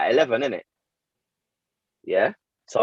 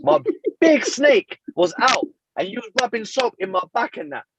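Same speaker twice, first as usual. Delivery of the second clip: laughing protest; 5 semitones higher than usual. Retold or imitated. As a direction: laugh through the accusation. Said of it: "And I'm like".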